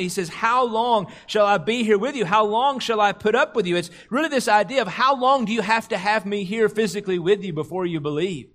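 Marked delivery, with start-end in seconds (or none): 0.3-3.8 frustrated. Retold or imitated. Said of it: "Jesus was frustrated in this moment".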